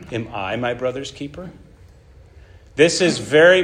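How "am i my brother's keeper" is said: softer, bitter sneer; quiet seething. Acted. Cain mocking God over Abel, softly seething. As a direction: hiss it back at God with contempt. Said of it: "You see this?".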